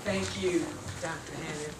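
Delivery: breathless, catching her breath. Real, not acted. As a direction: speak while still winded. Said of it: "I'm trying to catch my breath".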